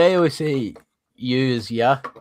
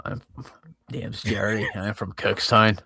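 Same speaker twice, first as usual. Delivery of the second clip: put-on harsh Northern Irish accent; 4 semitones lower than usual. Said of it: "It's a bit more harsh".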